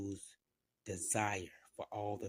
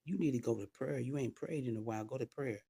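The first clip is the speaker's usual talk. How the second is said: higher-pitched, mildly insistent urging; mildly pressing nudge, pitched up; compelling spirit's voice; 4 semitones higher than usual. Retold or imitated. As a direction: urge them on as the spirit, lightly voiced. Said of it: "was so loud, the spirit would compel you".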